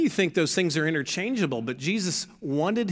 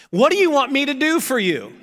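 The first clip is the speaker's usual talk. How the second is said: Jesus asking; 8 semitones higher, 4 dB louder than usual. Acted. Jesus asks the beggar.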